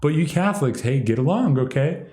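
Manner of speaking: a light imitation of a would-be leader pleading for peace; mock peacemaker leader. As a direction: play the leader smoothing over a feud. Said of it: "trying to be the leader, trying to, like, broker it".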